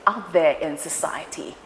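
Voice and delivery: bright show-opening host voice, loud and high. Pretend. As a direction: open the show like a live TV presenter. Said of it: "Wow, how was that?".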